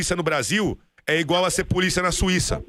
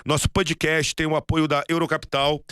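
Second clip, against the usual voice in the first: ad read. Acted. Sponsor ad read.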